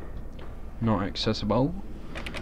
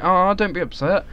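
mock consoling; 9 semitones higher, 3 dB louder than usual. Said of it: "they're upset and they're like".

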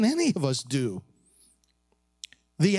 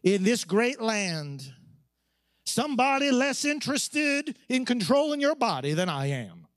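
put-on Southern accent; 4 semitones higher than usual. Senator answers a protesting woman, Southern accent. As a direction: draw it out with a light Southern accent. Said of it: "in his southern accent".

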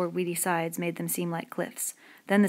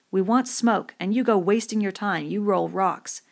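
loud, scolding outburst; angry; 3 semitones higher, 6 dB louder than usual. A narrator's reading. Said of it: "and the anger".

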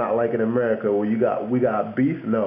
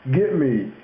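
higher-pitched mock London "get me"; London slang; 4 semitones higher than usual. Showing how they say "get me", London slang. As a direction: lightly imitate a Londoner saying get me. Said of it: "they'll normally go like this".

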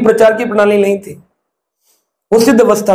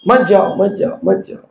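understated imitation of tearful begging, fading softer; mild tearful plea; 2 semitones lower, 3 dB quieter than usual. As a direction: retell a weeping plea in a lowered voice. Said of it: "Prabhupada जी रो रहे थे". (रोते हुए मनाने की हल्की नकल)

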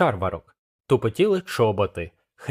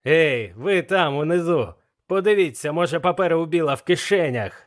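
blind man calling out; 6 semitones higher than usual. Acted. Blind Pew calls down to pirates below, mild shout. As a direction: call down to the men below. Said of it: "знову прокричав сліпець".

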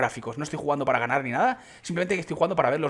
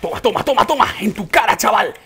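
loud, triumphant jeer; loud in-your-face gloating; gloating taunt; 3 semitones higher, 6 dB louder than usual. Real, not acted. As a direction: crow over a beaten opponent. Gloating over a hit in game.

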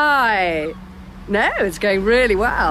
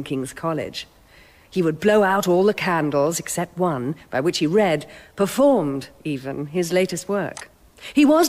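presenter's piece to camera. Acted. Presenter speaking to camera about ghost stories, measured. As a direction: introduce M R James to the camera like a TV host.

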